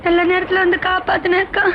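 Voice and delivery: acted weepy thanks; tearful. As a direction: thank the rescuer through sobs. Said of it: "அழாத செல்லம்மா".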